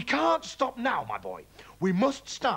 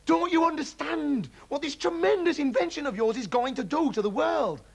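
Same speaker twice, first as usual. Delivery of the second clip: very high, loud raving; dad raving about giant animals; manic excitement; 10 semitones higher, 4 dB louder than usual. A narrator's reading. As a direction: build to a frenzy.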